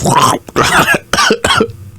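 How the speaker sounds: sputtering choke on a mint; choking sputter. Real, not acted. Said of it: "Sounded like you got choked".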